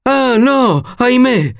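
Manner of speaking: a prince begging her to stay; crying out. A narrator's reading. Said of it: "E il principe gridava". (grido disperato)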